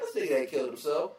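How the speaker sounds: reading a thread, calling out an attention seeker; scoffing disbelief. Retold or imitated. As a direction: call out the fake, incredulous. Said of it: "I'm like".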